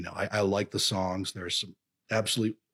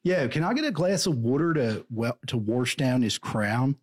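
put-on Philly accent; 3 semitones higher than usual. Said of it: "It's a weird accent in Philly".

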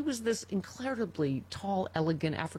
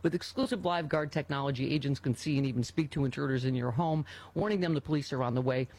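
ad read; 3 semitones lower than usual. Real, not acted.

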